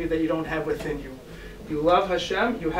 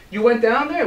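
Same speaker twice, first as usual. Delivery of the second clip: louder, rising check-back "You went down there?"; rabbi's sharp question; 3 semitones higher, 5 dB louder than usual. Acted. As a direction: press them, do not believe it.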